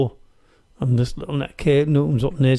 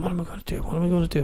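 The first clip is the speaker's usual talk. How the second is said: softly, higher, fretting under your breath; quiet, raised-pitch worried thought; retold fretting to himself; 5 semitones higher, 6 dB quieter, much faster than usual. Storyteller recalls standing there stuck, quiet retold fretting. Acting his panicked thoughts at the time.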